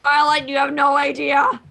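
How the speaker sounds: shouted warning. Acted. Player warns in shout.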